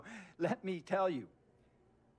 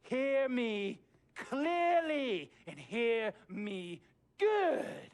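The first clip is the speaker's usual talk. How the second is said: much higher, spelled out letter by letter into a shout; shouted ultimatum; 10 semitones higher, 4 dB louder, much slower than usual. Acted. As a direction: yell each letter like a chant. Climax of the owner's demand.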